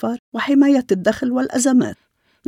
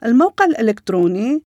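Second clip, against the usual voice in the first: slow dictation; slower than usual. Real, not acted. Dictating contact details slowly.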